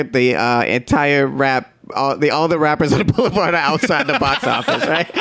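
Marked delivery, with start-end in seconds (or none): 1.9-5.2 laughing. Real, not acted. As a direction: talk through a laugh, pitched up. Laughing recalling the rappers outside.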